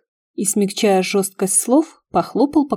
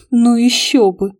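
slow, louder scoff; snorting; 4 semitones higher, 6 dB louder than usual. A narrator's reading. Heroine scoffs at two men not being friends, snorting. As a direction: snort it out, drawing the words. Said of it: "фыркнула я".

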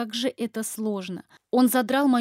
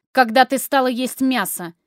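loud furious demand; angry shout; 3 semitones higher, 8 dB louder than usual. Acted. Husband shouting accusingly at his wife. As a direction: confront her, voice rising fast. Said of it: "голос его повышается".

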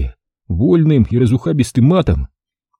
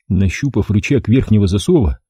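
plain reading voice

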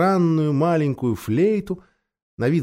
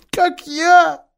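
Faun; 13 semitones higher than usual. A narrator's reading. Faun's voice.

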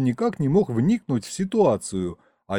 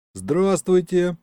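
slow, higher-pitched polite hello; polite greeting; 6 semitones higher, slower than usual. A narrator's reading. Narrator greets a crying young couple, politely. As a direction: greet strangers courteously, drawn out. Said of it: "вежливо сказал я".

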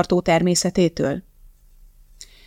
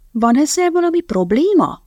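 hiss; 9 semitones higher than usual. Acted. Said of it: "sziszegett Elizabeth".

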